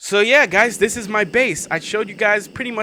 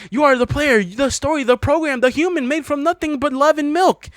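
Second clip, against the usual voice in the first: declaiming the poem higher than his chat; poem reading, higher; 8 semitones higher than usual. Acted. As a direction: read it like a lofty revelation. Reads the End Poem aloud.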